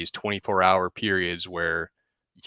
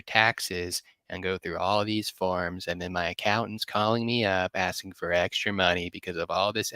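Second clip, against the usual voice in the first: pompous pillar voice. Pretend. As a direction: answer like a self-important expert. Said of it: "let me answer like a pillar".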